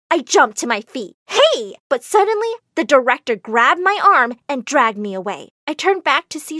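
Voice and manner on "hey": high-pitched protesting call; startled objection, pitched up. A narrator's reading. Jumps up to protest.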